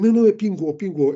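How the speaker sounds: retold correction pingô; correcting the word. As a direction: insist on pingô. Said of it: "Eu falei".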